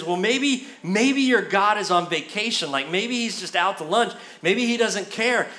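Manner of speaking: lightly taunting speculation; playful acted-out jeer; mock heckling. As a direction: needle them with fake helpful guesses. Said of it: "he starts heckling the crowd".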